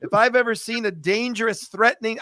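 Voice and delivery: dry tongue-in-cheek teasing; mock-accuse a gentle friend with a straight delivery; sarcastic. Real, not acted. Host teases peaceful guest Yair about looking dangerous, dry sarcasm. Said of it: "I'm being sarcastic, Yair".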